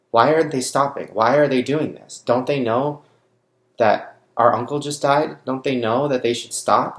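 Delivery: upset, insistent questioning; distraught retold plea. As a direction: plead in disbelief, raising pitch and volume.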